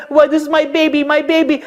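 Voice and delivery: put-on high and loud, crying over her baby; sobbing with relief; weeping my baby; tearful mother. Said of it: "started to start crying".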